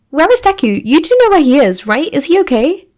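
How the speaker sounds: a hint of frantic worry; worried questioning. A narrator's reading. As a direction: fire them off, worried for her friend. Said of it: "She fires off questions rapidly".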